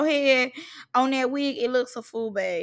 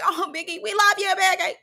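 high mock-adoring chorus; gushing fans; 7 semitones higher than usual. Reactor imitating the girls flattering a rapper, mock gushing. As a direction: swell into high, fawning mock love. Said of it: "they like".

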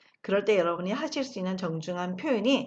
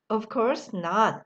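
very slow, drawn-out reply; slow model answer; much slower than usual. Shown as a demonstration. Teacher modelling the answer very slowly. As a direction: stretch each word for learners. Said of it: "다시 한번".

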